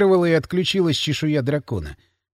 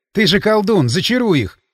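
hoarse while running; 3 semitones higher, 4 dB louder than usual. Acted. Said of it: "на бегу прохрипел я".

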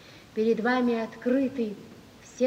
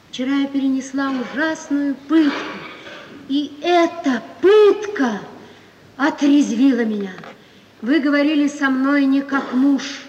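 louder, bitter reproach; indignant reproach; 2 semitones higher, 6 dB louder than usual. Acted. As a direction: throw the humiliation back at him. Wife reproaches husband. (гневный упрёк)

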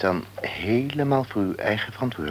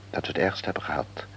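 hushed confidence; 5 dB quieter, faster than usual. Acted. Doctor thinking aloud, confidentially.

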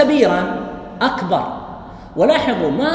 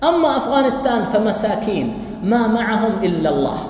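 pitying quote. Retold or imitated. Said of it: "هو قالها هكذا كسياق تعودنا عليه".

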